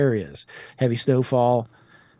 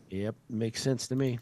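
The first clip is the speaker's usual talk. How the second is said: ordinary delivery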